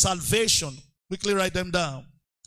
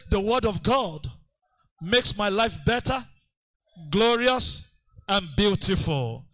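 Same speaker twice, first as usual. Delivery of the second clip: declaration. Shown as a demonstration.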